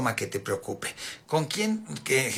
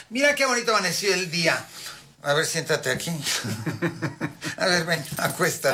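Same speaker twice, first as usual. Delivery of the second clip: mock cheerful visitor; 2 semitones higher than usual. Visitor opening the window for a bedridden patient, lightly mock-cheerful. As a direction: imitate an over-positive visitor. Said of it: "le abres la ventana y dices".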